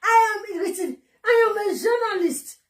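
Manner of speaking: lightly mimicked boast; mock the way a rival talks; mocking imitation. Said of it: "I don't know how he do that his mouth".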